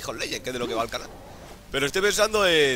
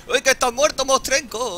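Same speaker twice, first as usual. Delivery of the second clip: gloating shout; 9 semitones higher, 5 dB louder than usual. Real, not acted. Gloating over a kill.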